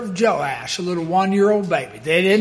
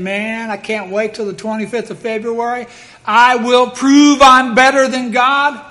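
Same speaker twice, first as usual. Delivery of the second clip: boasting devil; 2 semitones higher, 4 dB louder than usual. Retold or imitated. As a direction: gloat like a devil sure of victory. Devil boasting while celebrating.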